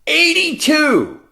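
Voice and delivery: high, slow, drawn-out amazement; amazed exclamation. Real, not acted. Host echoes the skier's age back, slowly amazed. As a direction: stretch out the marvel at the number.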